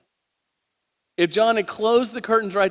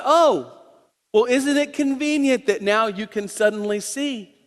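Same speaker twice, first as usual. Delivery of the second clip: sarcastic neighbors; 4 semitones higher than usual. Acted. Preacher voices sneering neighbors.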